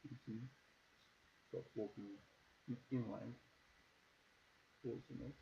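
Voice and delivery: soft, otherworldly fey lady; eerie woman voice. Acted. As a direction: speak softly and eerily. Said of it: "That wasn't eerie as fuck".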